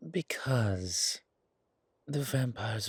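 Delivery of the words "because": whisper. Acted. Vampire confides, dropping into whisper.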